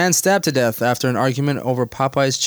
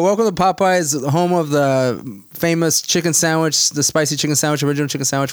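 cheerful recorded greeting; 3 semitones higher than usual. Retold or imitated. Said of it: "They go".

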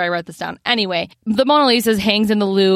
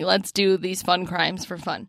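hushed mock scheming; 3 semitones lower, 7 dB quieter than usual. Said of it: "they were like".

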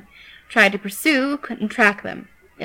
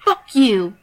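defiant shouted curse, louder; 2 semitones higher, 5 dB louder than usual. Acted. Pinned Yan curses Skidder, shouting defiantly. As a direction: spit the curse up at her. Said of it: "Yan shouted".

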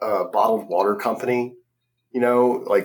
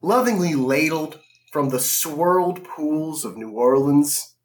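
slow, lingering sales copy; lightly hammed-up slow announcer; mock ad read; slower than usual. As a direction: present it like a luxury product. Continues the fake water ad.

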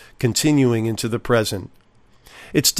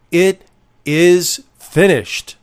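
solemn cry; 4 semitones higher, 4 dB louder, slower than usual. Acted. Jesus' last words on cross.

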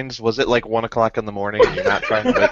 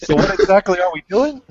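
Tom impression; 5 semitones higher than usual. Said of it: "the speaker's impression of Tom".

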